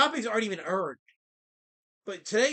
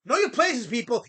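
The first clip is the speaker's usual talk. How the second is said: loud command; 4 dB louder than usual. Real, not acted. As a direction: bark the order at the chat. Commanding chat.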